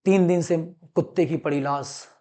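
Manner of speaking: subdued mock news report, low and soft; not-very-good anchor imitation; amateur news anchor. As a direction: lightly play a newsreader giving a report. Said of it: "मैं एक अच्छा news anchor नहीं हूं".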